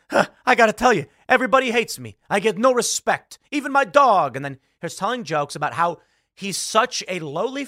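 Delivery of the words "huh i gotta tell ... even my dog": higher, louder self-pitying comic whine; Rodney Dangerfield. Retold or imitated. Comedian on stage complaining to the crowd, loud whiny Dangerfield. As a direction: do a sad-sack standup moaning about no respect. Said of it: "went up on stage and was like".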